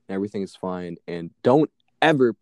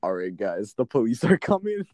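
owner announcing police; 3 semitones higher than usual. Retold or imitated. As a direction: boss breaking the news, voice shooting up. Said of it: "she's like".

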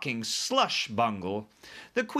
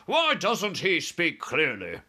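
higher, slow irritated question; snapped; 6 semitones higher, 4 dB louder, slower than usual. A narrator's reading. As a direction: demand it impatiently as army chief. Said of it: "the head of the army snapped".

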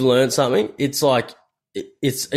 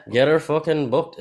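Northern Irish; 4 semitones higher than usual. Shown as a demonstration. Repeating co-host's phrase to show off his accent, Northern Irish. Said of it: "That's my accent".

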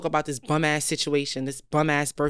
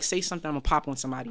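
mean mug; 3 semitones lower, 6 dB quieter, much faster than usual. Retold or imitated. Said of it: "looking at everybody like".

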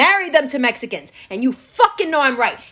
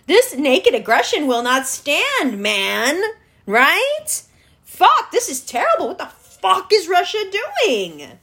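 mock outrage. Mocking outraged white Americans.

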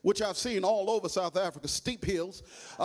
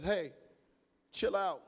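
calm father; 4 dB quieter than usual. Acted. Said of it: "the father of the little frog walks up and says".

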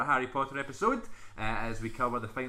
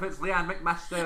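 slow, drawn-out announcer; announcer intro; 4 semitones higher, slower than usual. Acted. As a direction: announce her like a game show host.

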